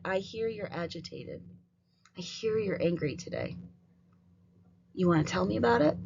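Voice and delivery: gentle, calm validation of an angry student; teacher calmly naming a child's feelings; calm acknowledging. Shown as a demonstration. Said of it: "Listen and repeat what was said".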